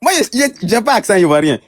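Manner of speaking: high-pitched, taken-aback protest; indignant protest. Real, not acted. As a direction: voice jumps up high in disbelief. Protests remark about his accent.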